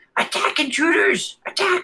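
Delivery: very high-pitched goblin-style voice. Voicing a goblin commanding the wolves: goblin yelling. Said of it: "you hear that he yells".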